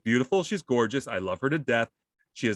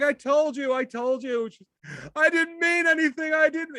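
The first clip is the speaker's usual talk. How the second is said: imitating panic; 12 semitones higher than usual. Retelling his wife pleading with the robins, mock panic. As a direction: blurt it like you're being chased.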